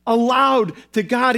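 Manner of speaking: ALOUD hit hard and held; emphatic repeat. Acted. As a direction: punch "Aloud" as a repeated cry to God. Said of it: "He repeated it for emphasis".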